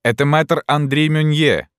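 high-pitched announcement; excited exclamation. A narrator's reading. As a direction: call out the man's identity to the crowd. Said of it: "воскликнул кто-то".

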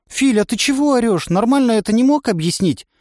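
high, scared reproach; frightened girl. A narrator's reading. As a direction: call out from hiding. Напуганная Настя упрекает. (испуганный упрёк)

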